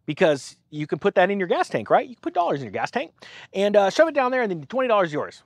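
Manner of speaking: a smug sarcastic bargain; mock offer. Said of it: "sarcastically say".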